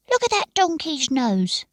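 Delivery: a hint of a gawking local; scowling townsman. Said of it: "said one".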